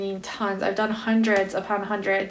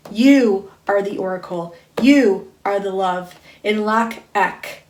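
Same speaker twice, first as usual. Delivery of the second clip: spiritual card reading. Acted. Reader telling listeners they are the oracle, intoned proclamation. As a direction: proclaim it with weighty, intoned emphasis. Reads card message aloud.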